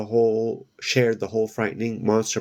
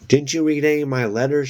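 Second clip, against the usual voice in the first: quick, high, insistent demand; 6 semitones higher, 4 dB louder, faster than usual. A narrator's reading. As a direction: fire the question fast and pushy. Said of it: "she demanded".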